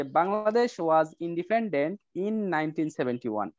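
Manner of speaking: very slow, word by word; slow example reading. Shown as a demonstration. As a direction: read the model sentence out slowly for the class. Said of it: "যেমন দেওয়া আছে হয়তো যে". (ধীরে ধীরে উদাহরণ পড়া)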